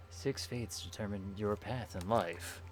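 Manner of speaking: ominous storybook reading, held back; dramatic narration. Acted. Streamer reads the game's fortune-telling intro, dramatic narration. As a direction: read it like a solemn, hushed oracle.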